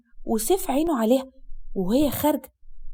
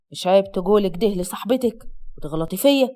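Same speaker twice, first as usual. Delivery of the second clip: low-pitched, stern husband; sharp; 5 semitones lower than usual. Acted. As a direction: rebuke with understated sharpness, pitched down. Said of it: "صوت أسد وراها بحدة وهو بيقول". (بحدة وبصوت واطي الطبقة)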